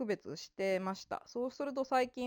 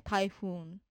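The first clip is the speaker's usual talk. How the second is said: タイフーン with the long フーン stressed; stress on final syllable. Shown as a demonstration. Teacher giving an accent example, タイフーン stressed on final フーン. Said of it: "そこを強く読むんですね".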